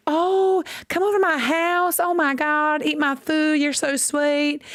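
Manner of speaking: very high, syrupy mock hostess; fake Southern sweetness. Southern neighbor inviting someone over, very high and syrupy. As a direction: lay the fake charm on thick.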